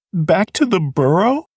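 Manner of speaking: high, whimpered question; a scared young rabbit whimpering the question. Acted. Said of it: "whimpered Fiver".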